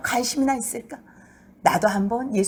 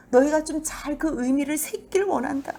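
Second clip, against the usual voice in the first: scolding; 5 semitones higher than usual. Acted. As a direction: tell them off sharply. Preacher scolding the Pharisees.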